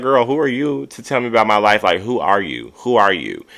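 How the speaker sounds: mildly fired-up mock challenge; fired-up retort. Imitating Lisa telling Kiki off about her life, mildly fired up. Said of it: "Lisa gets fired up".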